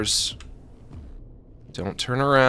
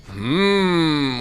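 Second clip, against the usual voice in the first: cartoon hmm; 3 semitones higher, 6 dB louder than usual. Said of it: "while I scratch my big Ren and Stimpy chin".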